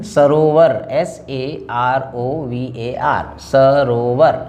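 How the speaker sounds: सरोवर spelled letter by letter slowly; spelling it out. Shown as a demonstration. Teacher spelling सरोवर for students. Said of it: "मान सरोवर लिखते समय".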